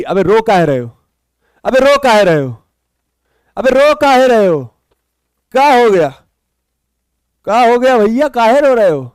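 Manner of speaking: playful exasperation, the question rising in pitch with each repeat; mock-scold them with falling, stretched endings. Teacher teasing students who cry in chat, mock scolding.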